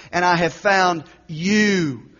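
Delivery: slow line, landing on "you"; stress on "you". Shown as a demonstration. Preacher quoting the seductress to her target, stress on "you". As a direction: draw out and lean on "you". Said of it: "Stress on the word you".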